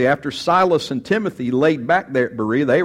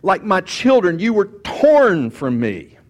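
slow and tender, a little louder, like a grieving father; tender Paul; 4 semitones higher, 3 dB louder, slower than usual. Acted. Preacher voicing Paul to the church, slow heartfelt longing. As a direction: plead like a father robbed of his children. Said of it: "Paul says".

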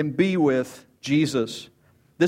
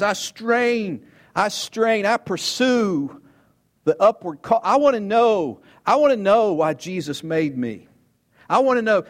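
fervent straining cry; 5 semitones higher, 3 dB louder than usual. Acted. Voicing Paul's straining pursuit.

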